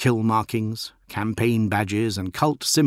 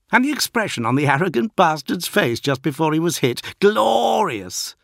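raised, loud brash recruit; gleeful young warrior; 8 semitones higher, 5 dB louder than usual. A narrator's reading. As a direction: crow about the kill, loud and high. Berias voiced by narrator.

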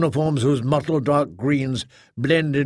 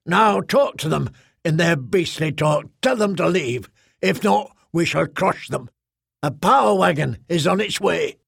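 firm, raised-pitch orders; commanding squad mother; 3 semitones higher than usual. Acted. Squad mother ordering Arik to disperse the crowd, commanding. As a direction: order it like an officer with backup coming.

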